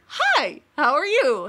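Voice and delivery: high, sugary fake-friendly hi; overly sweet greeting. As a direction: sound extra nice to the stranger. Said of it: "And I walk up to him and I'm like".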